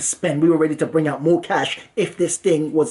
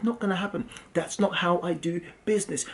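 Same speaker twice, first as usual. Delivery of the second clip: quiet retold refusal; 7 dB quieter than usual. Scammer calmly refusing the money.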